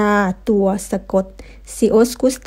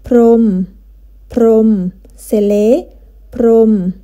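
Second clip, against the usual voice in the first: loud clear demo; 6 dB louder, much slower than usual. Shown as a demonstration. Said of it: "estas palabras".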